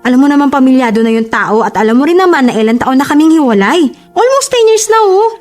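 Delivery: high, defensive arguing; indignant protest. Acted. Girlfriend dismissing boyfriend's jealousy, indignant.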